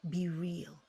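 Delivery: soft, wistful regret; regretful inner voice. Retold or imitated. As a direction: let it sink quietly. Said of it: "And they think".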